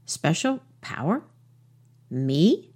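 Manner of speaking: awed, breathless little mouse; surprised small voice. A narrator's reading. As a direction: ask it in hushed wonder. Mouse asks in wonder.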